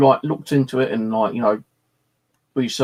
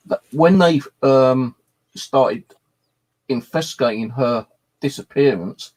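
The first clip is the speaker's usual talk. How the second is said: audio cutting out. Real, not acted. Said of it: "Your audio keeps cutting out".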